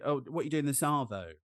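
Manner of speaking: light Australian accent, casual question; Aussie accent. Shown as a demonstration. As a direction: ask it like an Aussie. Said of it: "very Aussie thing to say".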